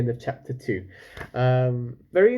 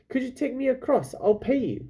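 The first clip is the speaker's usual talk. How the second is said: much higher, eager asking; a young girl asking hopefully; girl's eager plea; 11 semitones higher than usual. Acted. Lila begs the captain for a ride, much higher.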